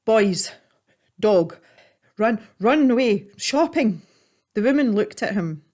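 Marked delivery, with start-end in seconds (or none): 0.1-4.0 out of breath. Acted. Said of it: "tried to get his words out".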